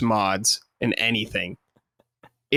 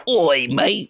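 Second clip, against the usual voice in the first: mock Cockney; 3 semitones higher than usual. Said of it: "Like a Cockney accent".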